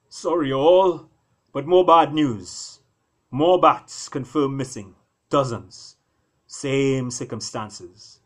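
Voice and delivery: loud, slow, urgent report. Acted. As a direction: announce the bad news firmly. Brer Dog brings bad news.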